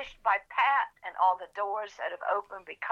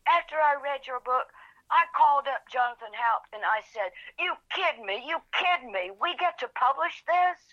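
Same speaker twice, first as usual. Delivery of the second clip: excited; 5 semitones higher than usual. Retold or imitated. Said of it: "And he says to me".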